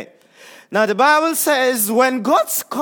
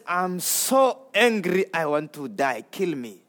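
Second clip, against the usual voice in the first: sulking Jonah; 4 semitones lower, 4 dB quieter than usual. Acted. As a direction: let it sag into a sulky whimper.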